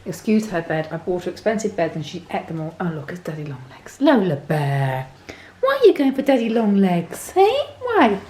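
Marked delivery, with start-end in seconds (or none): 2.9-4.0 hushed unvoiced whisper. Real, not acted. Spotting a spider near the dog. 4.0-8.2 talking to the dog. Real, not acted. Talking baby-talk to her dog.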